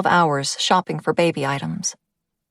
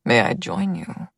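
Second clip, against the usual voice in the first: put-on jovial older man; 5 semitones lower than usual. A narrator's reading. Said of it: "Boris says".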